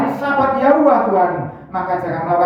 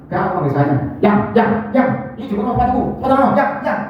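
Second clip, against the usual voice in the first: sweet pet names; 3 semitones higher, faster than usual. Retold or imitated. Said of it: "Panggil yang".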